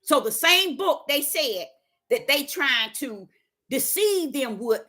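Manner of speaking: God answering Deborah, low and calm. Pretend. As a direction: speak as a patient God. God speaking to her.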